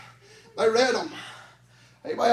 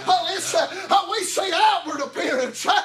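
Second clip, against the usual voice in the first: chanted whooping sermon, a sharp huh after each line; preaching at full force; 3 semitones higher than usual. Acted. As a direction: drive each phrase up and bark a huh at the end. Sermon builds back to whooping.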